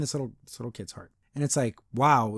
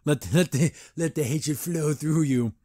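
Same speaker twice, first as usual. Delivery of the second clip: mock dark tempter. Mock villain urging the anger.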